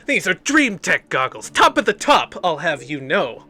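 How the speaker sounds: boastful villain. Acted. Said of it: "he says".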